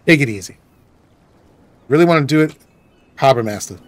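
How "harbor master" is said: "Harbor Master" quick and natural, the r softened Boston style; believable Boston accent. Shown as a demonstration. Boston gamer shows the real local Boston accent. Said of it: "more of a Boston accent, a believable one".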